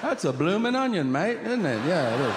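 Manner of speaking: high, hammed-up Australian voice; mock Australian accent. Kangaroo showing its family what it brought home, mock Australian. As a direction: play a chirping Australian kangaroo.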